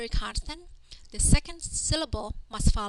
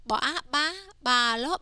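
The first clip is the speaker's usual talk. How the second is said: teacher's spell-out chant, raised at the start; spelling drill; 3 semitones higher than usual. Shown as a demonstration. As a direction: sound out each piece before the word. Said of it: "read each word by first saying the consonant".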